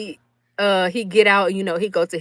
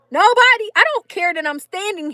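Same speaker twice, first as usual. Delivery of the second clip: emphatic burst; 9 semitones higher than usual. Real, not acted. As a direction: stress the disbelief. Overwhelmed backstage.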